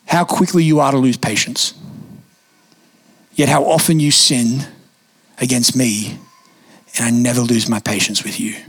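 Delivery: a hint of God gently correcting a tired father; gentle Holy Spirit voice. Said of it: "pretty much what he said".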